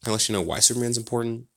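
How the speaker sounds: talking around a lollipop; sucking a lollipop. Real, not acted. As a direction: mouth busy with candy. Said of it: "sorry, I'm eating, eating this lollipop".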